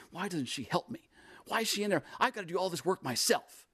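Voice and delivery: upset, indignant. Acted. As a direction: play a sister fed up in the kitchen. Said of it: "she's angry and she's upset".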